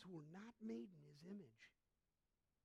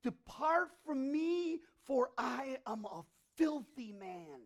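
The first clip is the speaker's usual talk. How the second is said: slow, high, loud cry of shame; anguished loud plea; 7 semitones higher, 14 dB louder, slower than usual. Acted. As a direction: beg him to go, voice rising. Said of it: "he said".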